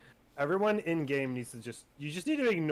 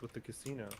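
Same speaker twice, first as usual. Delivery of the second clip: whisper; 3 semitones lower, 13 dB quieter than usual. Pretend. Answering whisper with whisper.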